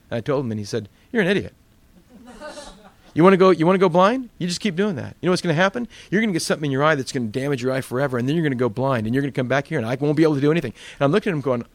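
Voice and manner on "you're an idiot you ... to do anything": retold scolding. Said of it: "He read me the riot act".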